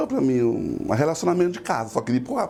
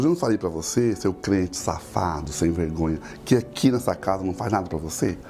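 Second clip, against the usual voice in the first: stern father scolding; 8 semitones lower than usual. Retold or imitated. Father berating his believer son over the shirt, in a low stern voice. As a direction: play the angry dad berating his son.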